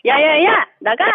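mild practice telling-off; half-hearted mock order to leave; attempted scolding. Caller combines drilled phrases, mild mock scolding. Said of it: "야야 섞어".

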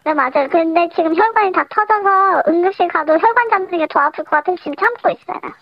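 anonymous caller through voice changer; deep pitch shifted. Real, not acted. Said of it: "더 아파 보이는 음성 변조를 했어". (음성 변조된 목소리)

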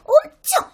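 엄청 thrown up high and stretched; emphatic high stress. Acted. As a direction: jump way up on 엄청 for a huge size. Child exaggerates dog size.

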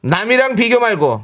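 acrostic recital. Shown as a demonstration.

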